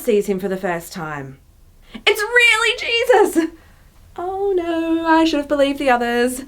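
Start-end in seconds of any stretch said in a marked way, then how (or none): 1.9-3.5 high, slow, thrilled cry; hammed-up joyful disbelief; excited inner voice. Acting Thomas's inner reaction. 4.2-6.4 worried regret. Acted. Acting Thomas's regretful inner reaction.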